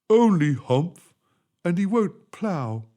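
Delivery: slow, loud ox voice; grumbling ox. Acted. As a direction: drag it out like a sulky ox.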